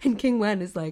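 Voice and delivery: ordinary talk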